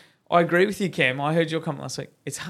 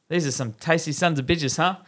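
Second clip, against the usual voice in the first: priest voice; 3 semitones higher, 4 dB louder than usual. Acted. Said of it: "The priest looks at the cardinal and says".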